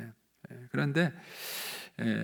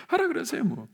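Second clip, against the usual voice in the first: very high, singsong brush-off; breezy dismissal; 12 semitones higher than usual. Retold or imitated. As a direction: shrug it off in a high voice. Repeats carefree reply to gossip. (높은 목소리로 태연하게 흘려 넘기기)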